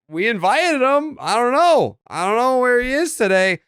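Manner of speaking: high-pitched put-on excuse; mock helplessness. Hosts answering fans about missing Tyler, high mock helplessness.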